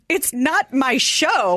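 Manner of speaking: high, slow, indignant protest; mock affronted; indignant Norm. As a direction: drag out the refusal in disbelief. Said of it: "And Norm goes".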